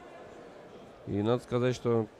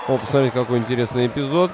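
excited; 7 dB louder than usual. Real, not acted. Commentator points out a moment.

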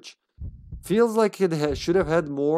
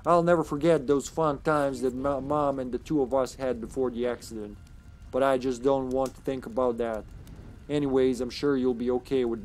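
put-on southern accent. Amy saying goodbye in her letter, southern accent. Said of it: "you got that voice and that accent".

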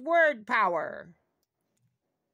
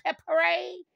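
cheering; 6 semitones higher than usual. Acted. Closing cheer.

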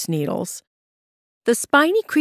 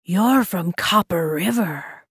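lynx voice; 2 semitones lower than usual. A narrator's reading.

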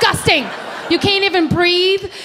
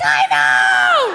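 smug I know; 12 semitones lower than usual. Retold or imitated. Me answering the gushing stranger, low and smug. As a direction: drop deep and own it. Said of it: "And I'm like".

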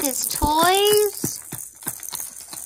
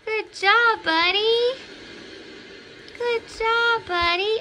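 higher sing-song praise for a pet; squeaky praising a dog; 5 semitones higher than usual. Real, not acted. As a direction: coo praise at the little dog.

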